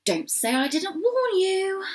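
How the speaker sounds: a tutting, grudging caution; huffy warning. A narrator's reading. Doe warns the little bunny at the door, huffily. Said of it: "Frisbee clicked her tongue and huffed".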